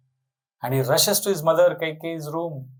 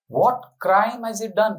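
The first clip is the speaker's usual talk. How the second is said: slow, higher protest; mild indignant outcry; 5 semitones higher, slower than usual. Acted. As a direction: demand it in disbelief. Bharat protests brother's exile.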